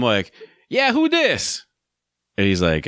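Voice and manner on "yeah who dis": much higher, silly put-on prank-call voice; a goofy disguised voice to fool the caller; stupid voice. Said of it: "I put on some stupid voice".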